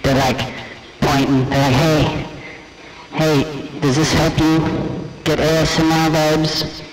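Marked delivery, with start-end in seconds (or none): 1.7-6.8 lightly voiced ASMR creator, a bit higher; a hint of a cooing ASMR video host; mock ASMR kid. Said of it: "how those kids be whispering".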